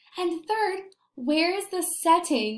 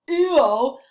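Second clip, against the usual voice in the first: disgusted ew; 6 dB louder than usual. Shown as a demonstration. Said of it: "I'm gonna use it in a sentence".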